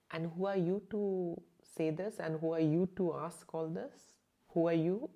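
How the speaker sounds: loud, indignant questioning; irritated challenge. Retold or imitated. To a staring stranger, loud indignant challenge. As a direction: demand who she is, affronted.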